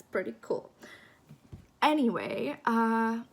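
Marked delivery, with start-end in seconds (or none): 1.8-3.2 hiccuping mid-sentence; words broken by hiccups. Real, not acted. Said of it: "sorry, I have the hiccups".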